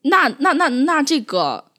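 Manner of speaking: stumbling over 那, slowing to a crawl; awkward stammer. Retold or imitated. Teacher reliving her awkward loss for words with a crying pupil, stammering. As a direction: grope for words, lost and embarrassed. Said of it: "很尴尬".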